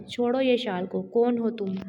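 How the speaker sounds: loud command to let her go; shouting. Acted. Husband pulling attacker off his wife, shouting.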